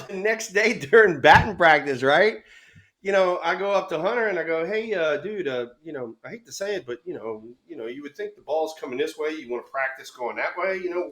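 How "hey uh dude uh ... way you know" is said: soft, hesitant, quick approach; acted careful, apologetic preamble; tactful hedging. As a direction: broach it gingerly, voice lowered. Retelling his tactful approach to player.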